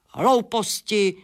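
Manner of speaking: slow, scornful spit of a word; spat out. Acted. Bat scoffs at the hen's silly idea, spitting it out. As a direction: scoff it dismissively, drawn out. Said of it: "prskl netopýr".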